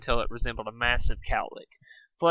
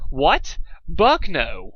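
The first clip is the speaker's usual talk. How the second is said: panicked protest; 4 semitones higher, 5 dB louder, much slower than usual. A narrator's reading. Told to let go of cliff.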